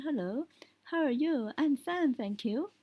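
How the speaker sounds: English with the imitated English accent kept on. Shown as a demonstration. Teacher switching from Spanish to English, keeping English accent. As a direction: carry the English accent into the greeting. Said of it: "keep that accent".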